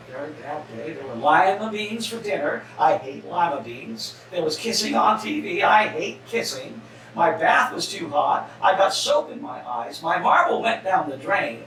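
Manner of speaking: storybook read-aloud to the congregation, lightly voiced; reading to children. Pastor reading Alexander's story to listeners, gentle storybook read. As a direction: read it like a bedtime picture book.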